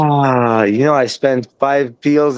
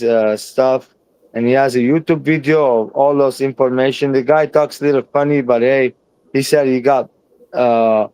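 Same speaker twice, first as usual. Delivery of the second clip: speech slurred by unfamiliar false teeth; lisping round new teeth; talking with new dentures. Real, not acted. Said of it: "I'm talking funny right now".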